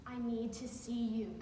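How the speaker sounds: quiet, steady insistence; softly voiced, serious boyfriend; earnest lover. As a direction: state the need gently and simply. Lover repeats earnest request.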